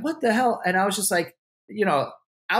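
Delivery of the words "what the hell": higher, amazed what the hell; mock astonishment from onlookers; stunned crowd. Onlookers at the party, high and amazed. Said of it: "everyone was like".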